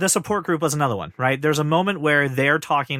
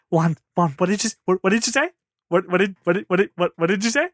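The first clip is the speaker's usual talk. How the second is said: eager pestering; 3 semitones higher than usual. Retold or imitated. Retold mom pestering sleeping kid.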